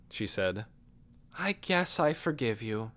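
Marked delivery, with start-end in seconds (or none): 1.4-2.9 grudging. Acted. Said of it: "a grudging forgiveness".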